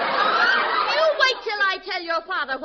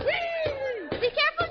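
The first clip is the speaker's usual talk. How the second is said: slow warning; 8 semitones higher, much slower than usual. Acted. Mother warns child.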